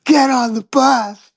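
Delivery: high, slow drawn-out mock command; hammed-up order to board; insistent alarmist. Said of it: "And they're like".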